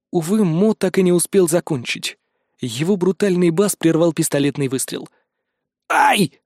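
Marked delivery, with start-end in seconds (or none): 5.9-6.4 high, startled cry; shouted. Acted. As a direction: cry out in shock, pitched way up. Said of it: "закричал Карл". (испуганный вскрик высоким голосом)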